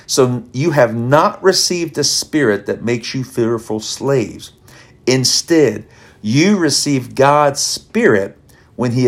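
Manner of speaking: slow, deliberate reading of the verse; scripture reading. Acted. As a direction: lay out each word of the passage. Reads scripture passage.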